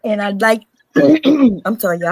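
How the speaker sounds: talking around ice cubes; words slurred by ice in mouth. Real, not acted. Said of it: "I have ice in my mouth".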